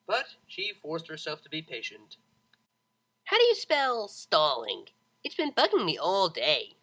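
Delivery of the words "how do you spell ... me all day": cheery pegasus. A narrator's reading. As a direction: drag out the question happily.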